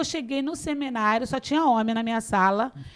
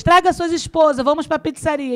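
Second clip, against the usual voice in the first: retold hearty invitation; 5 semitones higher, 6 dB louder than usual.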